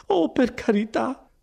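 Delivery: high, exasperated exclamation; high-pitched, drawn-out impatience; grateful but impatient. Acted. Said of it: "con quel misto di gratitudine e di impazienza".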